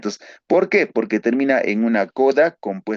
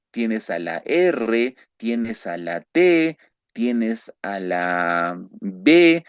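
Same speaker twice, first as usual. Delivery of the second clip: slow listing; slower than usual. Shown as a demonstration. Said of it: "listing letters slowly".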